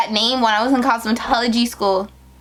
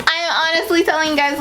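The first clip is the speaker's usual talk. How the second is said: teary laugh; 4 semitones higher, faster than usual. Real, not acted. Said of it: "I'm getting so emotional".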